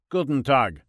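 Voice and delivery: put-on high, loud, heavy German accent greeting; Freud's German accent, laid on thick. A narrator's reading. Freud greets God in a thick German accent. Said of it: "said a voice slathered in a thick German accent".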